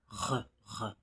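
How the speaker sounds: "Re" sounded alone, R plus a short "euh"; isolated syllable re. Shown as a demonstration. Teacher isolates the first syllable of renard, sounded out by itself. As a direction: sound out "Re" as one separate syllable. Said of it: "On a la syllabe re".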